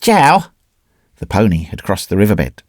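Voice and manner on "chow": short, high-pitched command; brief and emphatic. A narrator's reading. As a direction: order them off in one emphatic word. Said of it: "said briefly and emphatically".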